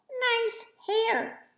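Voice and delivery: high, pleased troll voices; high troll voices, loud on the belt; grinning trolls. A narrator's reading. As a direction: compliment her like shy grinning trolls. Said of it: "grinning at me".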